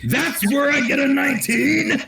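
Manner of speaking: high-pitched exclamation, voice leaping up; real high, excited yelp; excited outburst. Real, not acted. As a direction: cry it out high over a dice roll. Player exclaims over the dice roll.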